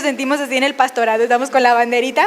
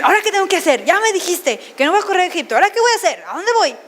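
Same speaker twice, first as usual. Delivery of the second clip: anxious pleading; 4 semitones higher, much faster than usual. Retold or imitated. Anxious believer questioning God.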